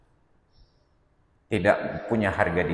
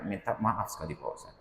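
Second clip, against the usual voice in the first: softer, hesitant apology; awkward, apologetic; 8 dB quieter than usual. Retold or imitated. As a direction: ask the favour sheepishly, voice dropping away. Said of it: "dengan sangat-sangat serba salah mereka katakan".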